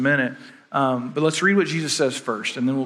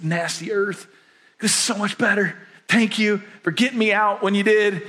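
grateful believer; 2 semitones higher than usual. Retold or imitated. Voicing a believer in heaven.

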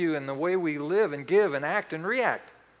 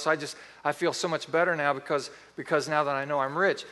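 lightly raised, ironic mock gratitude; sarcastic mock thanks. Preacher mocking a listener's reply, with sarcastic relief. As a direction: roll your eyes as you thank them.

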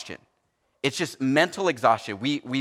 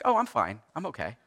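brushing it off; 3 semitones lower, 5 dB quieter than usual. Retold or imitated. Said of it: "He's like".

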